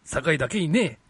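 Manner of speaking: gruff drill sergeant delivery. Acted. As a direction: bark the pun like a sergeant. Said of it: "軍曹さんの声でもう一回言ってもらっていいですか".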